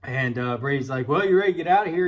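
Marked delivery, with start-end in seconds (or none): 1.1-2.1 retold call. Buddy calling out in storm.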